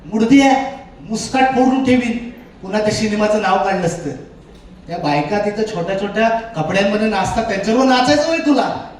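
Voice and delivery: scolding village mother, acted out; angry mother. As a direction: tell off a son with rising indignation. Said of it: "ती जास्त भडकली".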